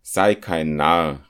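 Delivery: calling out. Acted. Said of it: "rief der Zirkelschmied".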